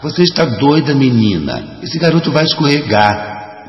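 high-pitched, indignant challenge; alarmed questioning. A narrator's reading. Teacher confronts the girl as the boy may slip, high alarmed questioning. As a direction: challenge her sharply, pitch jumping high. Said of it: "começou a questionar".

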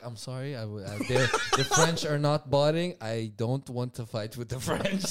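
mock apology. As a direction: imitate someone sheepishly backing down, amused. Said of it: "he apologized".

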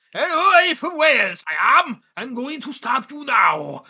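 put-on high lilting Welsh accent, slow at the end; a hammed-up Welsh sing-song. Bad Welsh impression of the insurance advert man, lilting high. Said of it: "Welsh impression".

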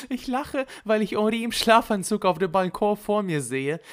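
very high, giddy delivery; amused, laughing. A narrator's reading. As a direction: explain it in high-pitched amusement. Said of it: "Loulou fing an zu lachen". (belustigt, wie beim Lachen)

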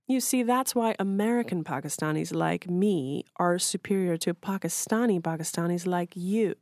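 a hint of a high, prim know-it-all voice; mock Hinna impression. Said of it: "making his eyes wide and his voice high".

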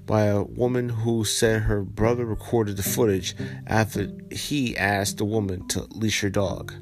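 steady, even article reading; news article read-aloud. Acted. Vlogger reading viewers a viral Central Park story, news read-aloud. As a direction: read out the report evenly.

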